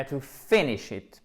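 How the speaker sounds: "to finish it", slowly, stressing the first syllable of "finish". Shown as a demonstration. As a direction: lean slowly on the start of "finish". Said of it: "accent tonique sur la première syllabe". (« finish » lent, accentué sur la première syllabe)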